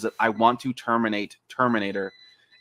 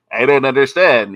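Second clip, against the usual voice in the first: bad dub voice; 9 dB louder than usual. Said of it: "some guy who is just like".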